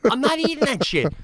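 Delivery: high, incredulous protest; retold exasperation. Retelling refusing to eat the pasta from the dirt, incredulous. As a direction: plead in disbelief. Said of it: "And I'm like".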